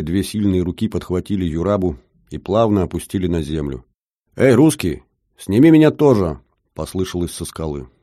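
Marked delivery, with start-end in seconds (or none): 4.4-6.4 louder, higher shout upward; calling out. Acted. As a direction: call down from a cliff. Calling down from the cliff.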